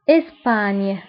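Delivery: إسبانيا as French es-pagne, no final vowel; French name for إسبانيا, ending on a "ny" sound; French pronunciation. Shown as a demonstration. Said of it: "بالفرنسية أيضًا".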